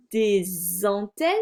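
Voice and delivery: "des antennes" with a z linking the words; liaison. Shown as a demonstration. Teacher demonstrates the liaison in "des antennes", linked with a z. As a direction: link "des" into "antennes" with a clear z. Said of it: "Je fais la liaison".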